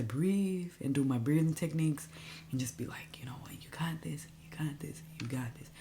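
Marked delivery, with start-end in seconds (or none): 3.2-5.7 soft, hushed pep talk to oneself; soothing self-talk. Retold or imitated. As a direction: quietly coach yourself through it. Retold calming self-talk while breathing.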